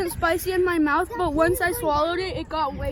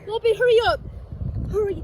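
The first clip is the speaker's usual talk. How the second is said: urgent shout; 2 semitones higher, 6 dB louder, faster than usual. Real, not acted. Urging friend to fetch bread.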